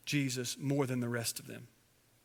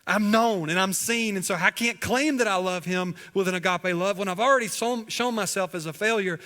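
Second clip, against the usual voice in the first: lightly acted anguish, raised and louder; ashamed Peter; 5 semitones higher, 5 dB louder than usual. Preacher imagining Peter's ashamed thoughts, agitated. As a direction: reason it out urgently, higher, as if cornered. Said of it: "was out of shame because he was afraid".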